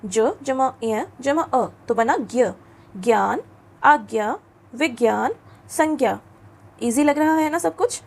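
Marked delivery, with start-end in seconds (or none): 0.0-1.6 ज जमा इय जमा अ drawn out slowly; slow spelling out. Shown as a demonstration. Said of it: "ये होता है ज्ञ". 2.9-6.2 ज्ञान said as ग्यान; model pronunciation. Shown as a demonstration. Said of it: "ये होता है ज्ञ".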